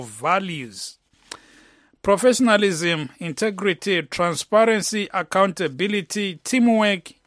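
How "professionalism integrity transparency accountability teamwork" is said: each value punched louder and higher: "professionalism", "integrity", "transparency", "accountability", "teamwork"; emphatic list. Real, not acted. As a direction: hit every word of "professionalism, integrity, transparency, accountability, teamwork" hard and high. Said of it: "you have to pay attention to this".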